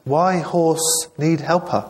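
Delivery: put-on slow, high, puzzled Japanese accent; a baffled Japanese woman in broken English.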